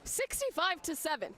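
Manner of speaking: drawn-out, emphatic score call. Real, not acted. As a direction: lean on each number slowly. Announcing the lopsided final score.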